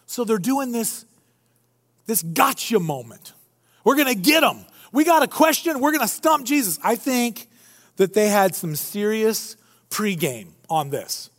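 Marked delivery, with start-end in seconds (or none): 3.8-6.8 higher-pitched imitation of scheming questioners; mock eager plotting. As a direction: play them keen to stump their opponent.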